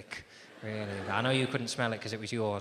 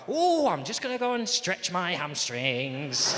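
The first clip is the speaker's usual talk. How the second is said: casual excuse; 6 semitones higher, slower than usual. Retold or imitated. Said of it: "I go".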